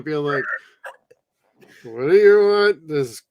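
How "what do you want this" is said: put-on a touch of slurry drunk Santa griping; lightly voiced drunk Santa. Grumbling drunk Santa cursing his Christmas job. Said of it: "David Harbour ... being a drunk Santa".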